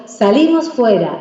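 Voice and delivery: slow, happy call to go out; joyful invitation. Shown as a demonstration. Parent inviting a child outside as a reward, joyful. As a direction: make going outside sound like a treat. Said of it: "es una alegría ese fuera".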